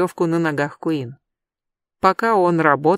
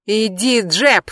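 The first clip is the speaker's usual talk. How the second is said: shouting; 3 semitones higher, 3 dB louder, slower than usual. Acted. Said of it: "снова крикнул Адам".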